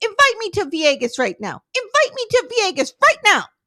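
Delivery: furious angry tirade, pitch climbing. Retelling a scene script, a woman confronting her partner: imitating Natalie unleashing on him. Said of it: "she just unleashes".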